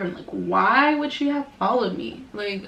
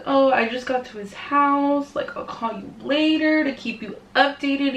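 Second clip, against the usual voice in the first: higher put-on voice for the girlfriend; imitated girlfriend; 5 semitones higher than usual. Vlogger mimicking girlfriend's update from his house, higher put-on voice. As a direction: mimic her chatty update, pitched up.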